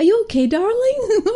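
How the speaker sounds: high, hammed-up American mum voice; badly faked American accent, drifting towards Irish; attempted American accent. Retelling an American mum to her daughter, shaky American accent attempt. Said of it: "that's not how American accent speaks".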